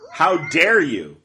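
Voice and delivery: playfully scandalized fan; mock outrage. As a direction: draw it out as teasing fury. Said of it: "I'm teasing".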